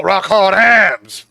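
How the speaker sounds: drawn out, very slow; slow emphasis. Pretend. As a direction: stretch each word out.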